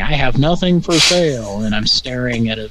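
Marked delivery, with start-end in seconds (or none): 0.0-1.6 lightly voiced grumpy old man; gruff denial, a bit louder; gruff neighbor voice. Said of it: "his voice saying".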